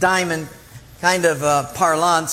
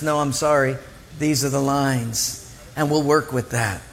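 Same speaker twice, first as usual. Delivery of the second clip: lower, even refusal; calm umpire; 5 semitones lower than usual. Retold or imitated. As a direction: state the rule without budging.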